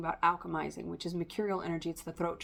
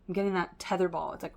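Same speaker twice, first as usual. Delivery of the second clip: ordinary talk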